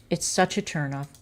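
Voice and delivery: dropped to a soft, muttered repeat; quiet repeat. Real, not acted. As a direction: say it again under your breath. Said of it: "It really is".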